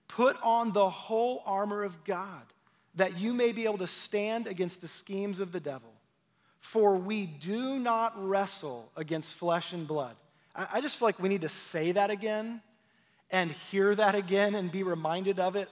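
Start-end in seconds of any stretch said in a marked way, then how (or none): 0.1-10.1 scripture reading. Acted. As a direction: read it as holy text, unhurried. Reads Ephesians aloud.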